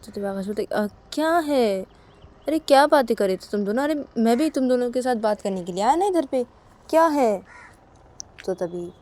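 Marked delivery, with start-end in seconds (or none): 0.6-7.4 voiced husband. Akash voiced in told story.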